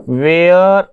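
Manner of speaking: very slow, word by word; slow dictation. Shown as a demonstration. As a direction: write along as I speak. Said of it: "तो where I live". (बहुत धीरे लिखवाते हुए)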